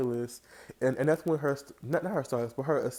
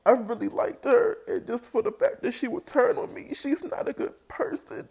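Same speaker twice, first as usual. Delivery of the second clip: voice breaking; 11 semitones higher, 5 dB louder than usual. Retold or imitated. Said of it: "the voice is breaking down".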